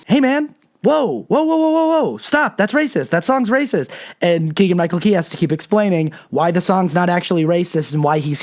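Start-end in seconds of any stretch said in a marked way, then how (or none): 0.1-3.9 much higher, startled protest; alarmed friend. Retold or imitated. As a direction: cut him off in high-pitched alarm. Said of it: "Jordan Peele keeps stopping him and going".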